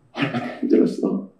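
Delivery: a father holding his son, barely voicing 얼마나 힘들었어; hushed tender father. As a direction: murmur it close to his ear. Father embracing returned son.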